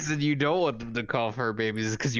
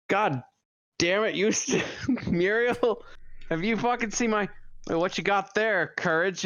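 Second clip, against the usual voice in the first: higher-pitched mock cranky old farmer; cranky Eustace impression; 7 semitones higher than usual. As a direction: play the grumpy farmer, pitched up. Retelling cartoon, Eustace voiced.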